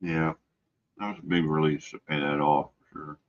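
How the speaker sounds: talking with food in mouth; chewing while speaking; mouth full. Real, not acted. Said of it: "Sorry, I'm talking with food in my mouth".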